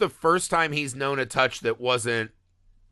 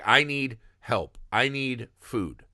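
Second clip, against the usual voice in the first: slow, halting plea for help; pleading monster; slower than usual. Retold or imitated. The monster begging a family for help, slow and halting. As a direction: ask slowly, like a creature just learning words. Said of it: "another creature who's like".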